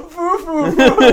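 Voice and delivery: mild condescending mimic; condescending foo. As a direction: sneer the foos lightly. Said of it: "that condescending".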